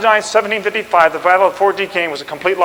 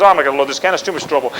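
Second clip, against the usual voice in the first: mock giving up; 7 semitones lower, 3 dB quieter, faster than usual. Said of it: "He goes".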